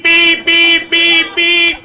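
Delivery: high loud beeping; shrill mock car horn; imitated car horn. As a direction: honk it like an angry horn. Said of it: "starts beep".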